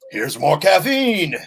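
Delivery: lightly voiced cheerful barista; mock sweet clerk. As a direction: play the chirpy clerk with a coffee tray. Clerks handing caffeine to troops.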